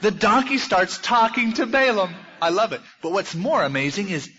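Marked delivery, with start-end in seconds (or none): 0.0-2.8 louder and higher through a laugh; can't hold back the amusement; laughing delight. Real, not acted. Preacher marvelling to the congregation, laughing.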